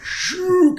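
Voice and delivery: long, high whooshing sound effect; imitated whoosh. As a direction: draw out a whoosh like something diving. Imitating a plane going down.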